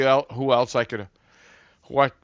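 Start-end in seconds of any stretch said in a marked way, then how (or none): 1.8-2.1 talking through hiccups. Real, not acted. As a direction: hiccups cutting into words. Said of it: "I got the hiccups there".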